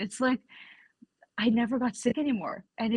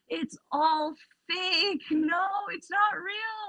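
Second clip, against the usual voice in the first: high insistence; 10 semitones higher, slower than usual. Retold or imitated. Insisting against family.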